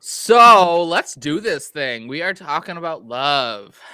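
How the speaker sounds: slow, loud mock radio host; hammed-up seductive DJ; radio sexy voice. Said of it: "that was my best chance at radio sexy voice".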